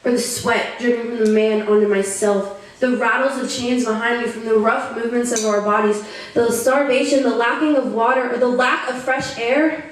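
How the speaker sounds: earnest first-person poetry recital; solemn, rhythmic performance; spoken-word poem. Acted. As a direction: recite a survivor's testimony in measured phrases.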